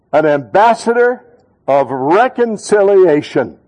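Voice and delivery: ambassador hit loud, reconciliation drawn out slowly; loud, slow call-and-response. Shown as a demonstration. Pastor leading church in unison, loud and slow. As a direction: lead the congregation in a loud, slow chant. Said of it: "say it real loud with me".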